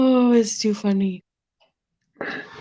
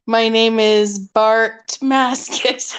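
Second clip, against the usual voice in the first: slow, drawn-out fake name intro; made-up character intro; 2 semitones lower, much slower than usual. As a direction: announce a silly fake identity slowly. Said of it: "just make up a character".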